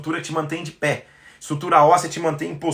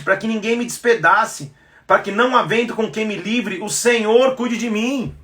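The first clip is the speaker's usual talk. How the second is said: fervent preaching; 7 semitones higher than usual. Acted. Fervent scripture reading and preaching.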